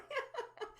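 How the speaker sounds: quick high giggle; high squeaky laugh. Real, not acted. Laughing at her husband's reaction, high squeaky giggle. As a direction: let a squeal of a laugh escape.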